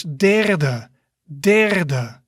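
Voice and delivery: "derde" slowly with rolled r; slow pronunciation demo. Shown as a demonstration. Teacher models derde slowly for learners. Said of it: "Then third is".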